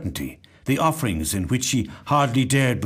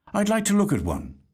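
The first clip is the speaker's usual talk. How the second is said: lightly voiced young woman; 9 semitones higher than usual. A narrator's reading. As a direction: say it politely as the young woman, a little higher. Young woman speaking to Thaddeus.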